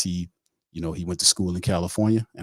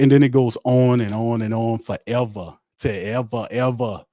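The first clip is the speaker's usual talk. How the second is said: building to a shout; 5 semitones higher, 5 dB louder, slower than usual. Acted. Mocking the endless talk.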